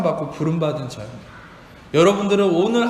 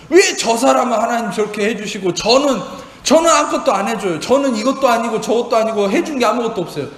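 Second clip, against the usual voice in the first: mock indignant protest, a bit louder; indignant complaint; 4 semitones higher, 3 dB louder than usual. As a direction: act out a believer griping to God. Believer demanding from God.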